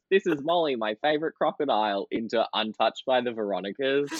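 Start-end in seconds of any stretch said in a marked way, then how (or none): 0.1-2.1 Steve Irwin impression. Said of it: "I did a Steve Irwin number".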